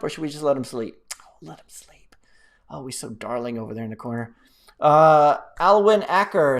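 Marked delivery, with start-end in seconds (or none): 1.2-4.3 hushed cooing whisper. Pretend. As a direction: pretend whisper over someone sleeping. Pretends not to wake a sleeping viewer.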